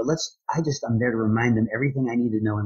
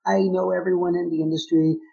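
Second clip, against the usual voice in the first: mock full-of-himself industry guy, pitched higher; higher, lightly mocking big-shot voice; smug insider; 8 semitones higher, 3 dB louder than usual. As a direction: play a smug know-it-all who thinks he's made it. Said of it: "that guy that says".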